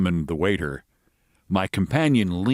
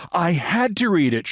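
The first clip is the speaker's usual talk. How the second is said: American lady voice; 8 semitones higher than usual. Acted.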